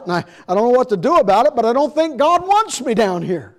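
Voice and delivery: a hint of a man pouring out his failure; pleading confession. Church member confessing to the preacher at the altar, building to a plea.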